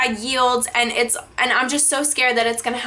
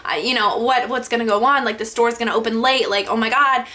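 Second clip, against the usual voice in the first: racing panicked thoughts; faster than usual. Retold or imitated. Reliving panic at the crash, fast worried inner voice. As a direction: rattle it off like your mind is racing. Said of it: "my mind's just racing".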